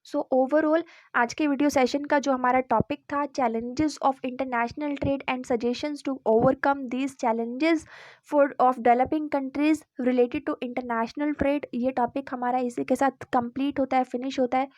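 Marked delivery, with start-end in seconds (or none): 2.3-11.7 slow, even dictation of the heading; dictating pace for notes; slow heading read. Acted. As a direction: read it out slowly so students can note it down. Reads the topic title slowly.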